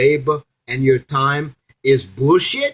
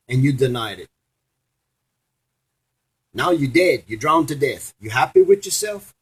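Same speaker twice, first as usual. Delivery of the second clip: mocking Saint Peter; 3 semitones higher than usual. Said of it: "and Saint Peter said".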